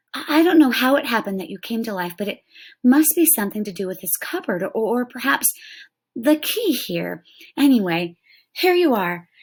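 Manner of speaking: put-on boy rushing to win the tiny Indian's trust; eager boy. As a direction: rush through it, eager to please. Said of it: "he finished in a very reasonable tone".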